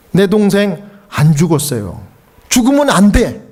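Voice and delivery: a brother's broken plea; pleading denial. Retold or imitated. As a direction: beg him not to be dead. Twin pleading over dead brother.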